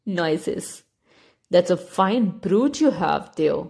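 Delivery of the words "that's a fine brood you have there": put-on elderly duck. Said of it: "an elderly duck quacked".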